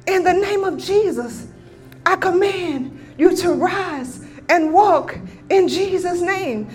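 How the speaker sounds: slow, measured declaration of healing; solemn, deliberate command in prayer. Retold or imitated. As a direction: command it slowly, phrase by phrase. Healing command to sick woman.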